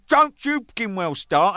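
loud and slow, each word spaced out; loud, slow mock threat; retold warning. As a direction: warn him off, deliberately slow. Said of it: "I said".

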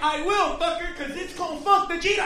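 cocky gazelle yelling back; brash mock gazelle challenge; defiant gazelle. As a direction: shout it like a dumb gazelle picking a fight.

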